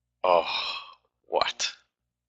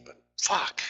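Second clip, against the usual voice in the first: hammed-up curse; 12 semitones higher, 4 dB louder than usual. Mock polite then swearing.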